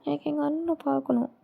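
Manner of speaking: mildly acted tearful longing. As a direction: plead quietly, as if upset. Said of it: "ஓய், ஏன் அழுவுற?".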